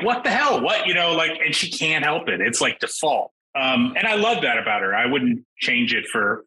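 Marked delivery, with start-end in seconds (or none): 0.0-0.9 baffled what the hell. Retold or imitated. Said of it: "you're just like".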